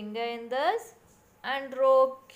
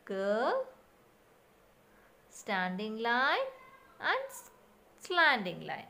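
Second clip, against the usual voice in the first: slow demo steps. Shown as a demonstration. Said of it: "like this".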